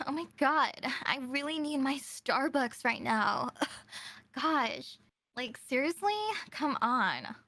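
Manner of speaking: bubbly Valley girl, lightly voiced; lightly put-on Valley girl whine. Shown as a demonstration. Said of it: "for Valley girl".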